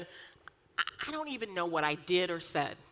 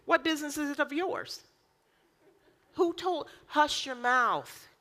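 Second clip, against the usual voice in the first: higher, sharp mock scolding; a touch of stern rebuke; 8 semitones higher than usual. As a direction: scold like a no-nonsense parent. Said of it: "You know what he'll say to me?".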